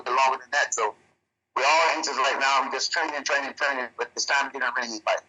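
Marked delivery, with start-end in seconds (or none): 1.5-5.2 breaking up over a bad line; choppy connection. Real, not acted. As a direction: voice cutting in and out. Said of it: "you're breaking up slightly".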